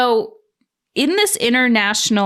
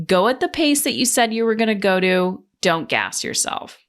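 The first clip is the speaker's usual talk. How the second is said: self-talk. Retold or imitated. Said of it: "I was just like".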